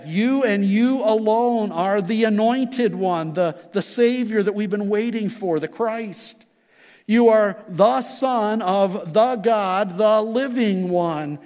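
each "You" pushed up and out, slowing at the end; emphatic You. Shown as a demonstration. Preacher unpacking Peter's words to Jesus, stressing each "You". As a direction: press hard on every "You". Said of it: "You is emphatic".

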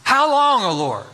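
a parent's aching cry of how long; lamenting prayer. Acted. A parent cries to the Lord for their children, lamenting.

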